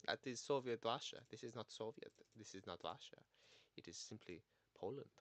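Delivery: understated mock Polish accent, settling down; deliberate, lightly put-on Polish accent; attempted Polish accent. Learner explaining this is not Russia, light mock Polish accent. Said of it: "Polish accent like this".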